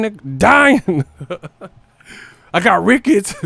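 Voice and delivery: high, loud cracking up while saying lines; laughing fit. Pretend. Pretend patient bragging about rickets, laughing hard. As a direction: lose it laughing mid-line.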